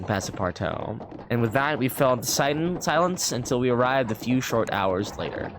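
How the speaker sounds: measured storybook reading voice; lightly performed narration; story narration. A narrator's reading. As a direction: read it like an old travel novel. Reads the game's story text.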